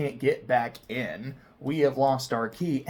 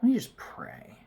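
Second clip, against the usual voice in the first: whispered thought; 4 semitones higher than usual. Retold or imitated. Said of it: "And then I think to myself".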